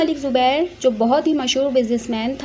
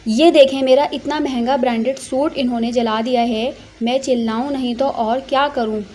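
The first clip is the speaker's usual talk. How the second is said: angry. Acted. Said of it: "गुस्से से बोल रही थी".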